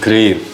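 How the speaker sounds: "ग्रेव" ending on a nearly silent व; almost silent V. Shown as a demonstration. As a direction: say "ग्रेव" and let its final व fade out. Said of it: "हम सुनते भी नहीं हैं". ("ग्रेव" में आख़िरी व मुश्किल से सुनाई दे)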